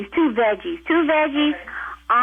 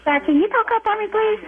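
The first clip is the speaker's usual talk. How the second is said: raised voice; 9 semitones higher than usual. Real, not acted. Operator asks caller to speak up.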